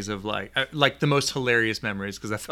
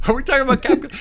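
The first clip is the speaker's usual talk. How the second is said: teasing; 12 semitones higher, 8 dB louder, faster than usual. Real, not acted. Teasing after viewer comment.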